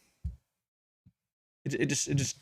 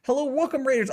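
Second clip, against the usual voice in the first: cheery welcome; 4 semitones higher than usual. Real, not acted. Welcoming incoming raid.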